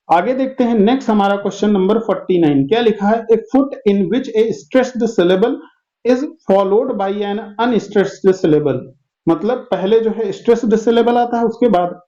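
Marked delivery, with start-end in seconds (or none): 3.3-8.8 slow dictation read. Shown as a demonstration. Teacher reads question slowly.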